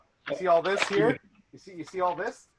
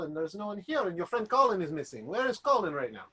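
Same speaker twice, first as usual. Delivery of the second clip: put-on French accent. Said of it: "a French accent or an Eastern European accent".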